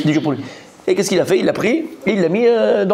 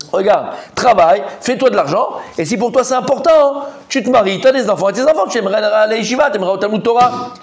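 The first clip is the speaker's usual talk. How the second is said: lecturing father; 4 semitones higher than usual. Retold or imitated. Father advising son to work.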